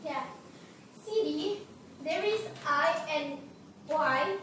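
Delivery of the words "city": "City" with the T softened to a D; flap T. Shown as a demonstration. Teacher shows learners the American flap T, "City" with a D sound. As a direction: say "City" like "siddy", American style. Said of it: "T sound to D sounds".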